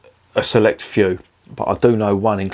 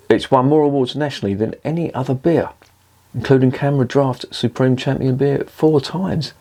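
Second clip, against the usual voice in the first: repeating the fact, higher in real amazement; amazed repeat; 4 semitones higher than usual. Real, not acted. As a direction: say it again in disbelief. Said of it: "That I did not know".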